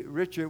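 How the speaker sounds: "Richard" said the French way, ree-SHARD; Cajun Richard. Shown as a demonstration. Preacher showing how folks back home say "Richard", French style. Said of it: "we say Richard".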